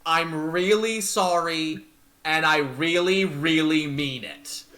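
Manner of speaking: slow, pressed apology in Alistair's voice. Acted. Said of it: "in Alistair's voice".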